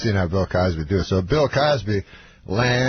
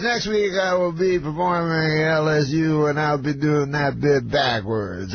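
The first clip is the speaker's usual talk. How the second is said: mimicked stage announcement, slightly raised; Bill Cosby; 3 semitones higher than usual. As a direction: announce it in a drawn-out impression. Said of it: "And then he goes".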